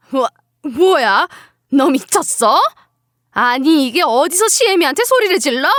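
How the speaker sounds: shocked, indignant mother-in-law; stunned start turning to angry reproach; affronted mother-in-law. Acted. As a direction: sputter at the insolence, then scold.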